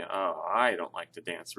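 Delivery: slow, with "I" drawn out and emphasized; stress on I. Shown as a demonstration. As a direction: lean hard on "I" to single yourself out. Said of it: "really putting an emphasis on the".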